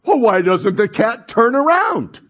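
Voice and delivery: lightly voiced little boy. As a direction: answer back like little Johnny, lightly acted. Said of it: "Little Johnny looks up, he goes".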